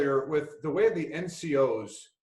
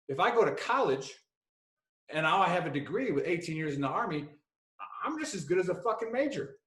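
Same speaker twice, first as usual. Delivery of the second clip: lightly mimicked accent, pitched up and indignant; King's Buddy Beckwith accent; 4 semitones higher than usual. Soldier defending eighteen Army years, indignant mimicked accent. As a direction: argue his case in the buddy's accent. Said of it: "his Buddy Beckwith accent".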